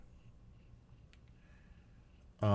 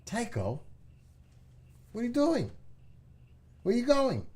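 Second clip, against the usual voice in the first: very high, louder cooing questions; 4 dB louder than usual. Real, not acted. Owner calling Tycho the dog, very high baby talk. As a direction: pitch it way up, as to a puppy.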